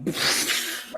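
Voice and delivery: wordless puff of air for a drop; mimed drop noise. Pretend. Game master mimes the player dropped onto ground, blown noise. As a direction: blow out a short burst of noise.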